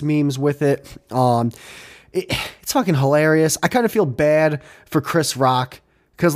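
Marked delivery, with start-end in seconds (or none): none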